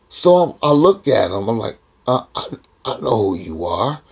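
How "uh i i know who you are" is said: halting, tentative reply with a false start; hesitant retelling. Retold or imitated. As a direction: retell a timid, stumbling answer. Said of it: "That's how I said it".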